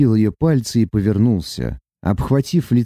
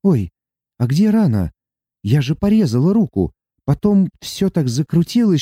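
put-on higher, wondering young woman's voice; surprised heroine; 5 semitones higher than usual. Sati amazed that her cut is gone, higher and wondering. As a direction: marvel at the vanished wound. Sati's held voice.

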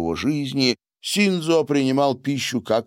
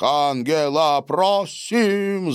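much higher applauding plea; excited chanted plea; eager cheer; 6 semitones higher, slower than usual. A narrator's reading. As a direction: urge her on over the clapping. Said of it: "зааплодировал Сильвио".

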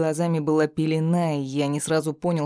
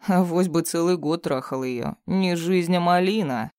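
sneering captive villain. Acted. Bound thug taunting his captor, mocking sneer. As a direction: jeer at him, barely altered voice.

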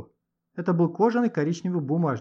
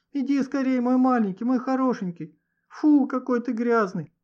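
высоко, нараспев, медленно; приласкай собаку, сюсюкая; ласковая девочка; 8 semitones higher, 3 dB louder than usual. A narrator's reading. Роза ласково встречает собаку. (девочка радостно сюсюкает с грязной собакой)

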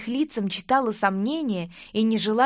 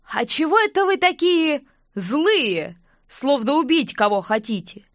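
raised, loud, playing the fool; loud mock-innocent question; 5 semitones higher, 4 dB louder than usual. A narrator's reading. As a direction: ask it loudly with a silly grin. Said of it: "громко добавил".

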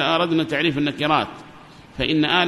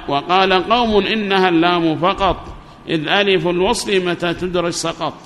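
verse recitation. Acted. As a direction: intone the verse line by line.

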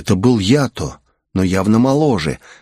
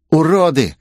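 higher-pitched vindictive mutterer's voice; malicious, raised-pitch jeer; spiteful hiss; 7 semitones higher than usual. A narrator's reading. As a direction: spit it after them spitefully. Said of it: "злобно прошипел спичка".

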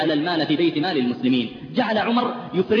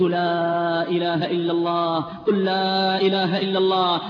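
gentle urging; slower than usual. Retold or imitated. Doctor urging dying youth.

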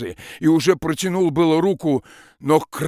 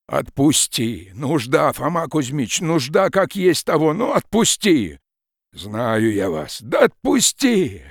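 desperate pleading; 3 semitones higher, 5 dB louder, slower than usual. Acted. Peasant begs forester to let go.

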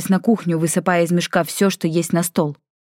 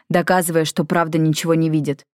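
usual speaking voice

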